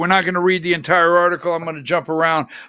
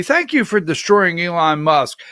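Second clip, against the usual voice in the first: sarcastic; 4 semitones lower than usual. Pretend. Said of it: "as sarcastic as I can be".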